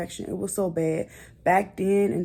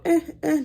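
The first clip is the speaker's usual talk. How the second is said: short mock baby "eh" noises; imitated baby fussing; 10 semitones higher, 5 dB louder than usual. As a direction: imitate a baby's little fussing grunts. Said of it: "that my son would make".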